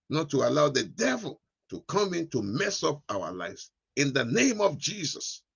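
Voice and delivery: fervent preacher's prayer; praying. Real, not acted. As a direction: pray it out with rising fervour. Leads a closing prayer.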